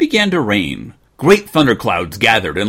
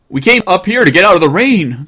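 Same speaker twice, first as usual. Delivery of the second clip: put-on high and louder child's cry; boy crying out; 9 semitones higher, 7 dB louder than usual. Jimmy calling down from the hayloft to his parents, high eager cry. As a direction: call out the explanation eagerly. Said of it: "cried Jimmy".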